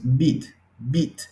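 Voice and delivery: bit with a short clipped vowel. Shown as a demonstration. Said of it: "es un sonido corto".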